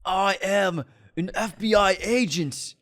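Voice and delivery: booming movie trailer narrator. Pretend. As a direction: intense dramatic trailer delivery. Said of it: "stuck in my trailer voice".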